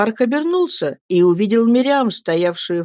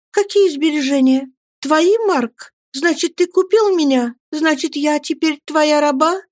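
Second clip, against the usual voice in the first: put-on higher girl's voice, rising alarm; alarmed young woman; 9 semitones higher than usual. Girl asks her rescuer if she is now his slave, alarmed. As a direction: fear you have been bought.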